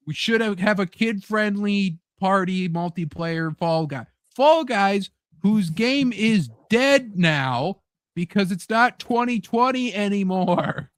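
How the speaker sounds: a hint of a greedy boss; mock corporate executive. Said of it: "it's like".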